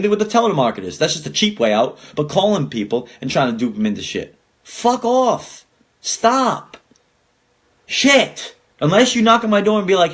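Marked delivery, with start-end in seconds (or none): 4.6-8.5 high exasperated outburst; angry. Real, not acted. Ranting at telemarketers, high exasperated outburst. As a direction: shoo them away, fed up.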